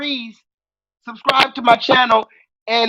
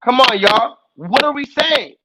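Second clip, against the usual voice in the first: normal talking voice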